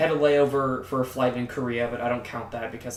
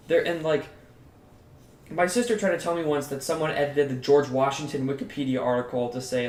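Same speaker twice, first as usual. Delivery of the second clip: ordinary delivery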